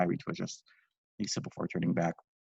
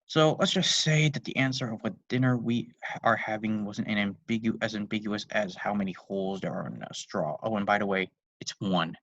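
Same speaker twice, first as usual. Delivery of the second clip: flatly. Acted. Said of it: "says the flat, stay flatly".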